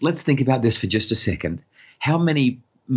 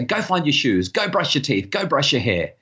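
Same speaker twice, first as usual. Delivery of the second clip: higher-pitched rattled-off commands; bossy parent orders; 5 semitones higher than usual. Acted. Parent telling kids to get ready for school, mildly bossy. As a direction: list chores like a nagging parent, pitch lifted.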